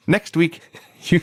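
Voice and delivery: lightly mimicked cute game character; cute voice imitation. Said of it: "in the cutest voice".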